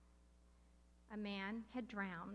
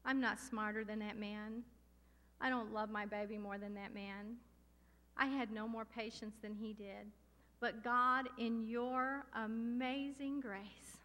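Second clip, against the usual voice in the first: retold prayer; slower than usual. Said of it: "And I said".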